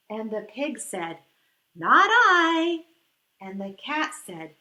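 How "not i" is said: a loud, blunt "no" from the duck; loud refusal. Acted. Duck refusing to help the little red hen, loud blunt refusal. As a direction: bark it out, flat refusal.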